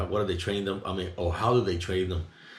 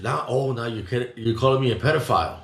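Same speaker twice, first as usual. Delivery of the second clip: retold outrage, louder on the accusation; indignant retort; 2 semitones higher, 4 dB louder than usual. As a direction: push back, offended, building in volume. Retold outrage at the cop's hint.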